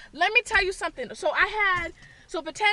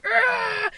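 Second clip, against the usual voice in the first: imitated growling scare cry; raised, drawn-out scare yell; monster scream; 4 semitones higher than usual. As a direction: roar like a haunted-house actor jumping out. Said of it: "screaming from this side".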